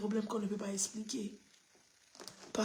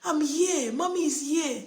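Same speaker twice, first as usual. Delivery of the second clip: comforting the dog; 5 semitones higher, 3 dB louder than usual. Retold or imitated. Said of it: "je l'ai pris pour dire".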